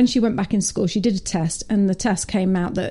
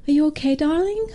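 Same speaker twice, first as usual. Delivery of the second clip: put-on mum checking on her child, voice lifting high at the end; gently ask, pitch rising on darling; concerned mother; 7 semitones higher than usual. Mum asking her upset daughter after school, concerned and high. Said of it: "And she goes".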